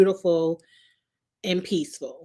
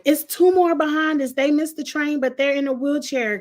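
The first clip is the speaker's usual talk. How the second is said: higher-pitched pleading, easing off gradually; retold urgent plea; 5 semitones higher, 3 dB louder than usual. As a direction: plead with the gate agent, lightly acted. Retold plea to gate lady to wait.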